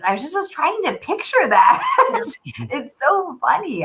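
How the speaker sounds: high, laughing hard. Real, not acted. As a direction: laugh while speaking. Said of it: "hysterical laughing".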